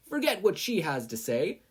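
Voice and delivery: high, sharp interruption; cutting in. Acted. Mina cutting off Mei on the speakers, sharply. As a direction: talk over her rival. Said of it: "Mina's voice suddenly cut Mei's off".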